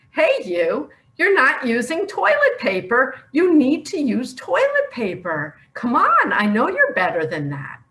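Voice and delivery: mock scolding. Retold scolding about toilet paper.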